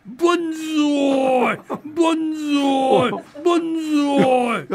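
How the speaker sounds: slow, drawn-out high cheering; banzai cheer. Acted. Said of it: "万歳三勝、もう一度やっていただけますか".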